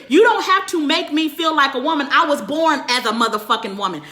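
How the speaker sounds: normal talking voice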